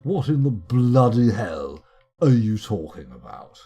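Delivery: loud, slow, emphatic bafflement; exasperated outburst. Real, not acted. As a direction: demand an explanation, hitting each word hard. Exasperated at the game's message.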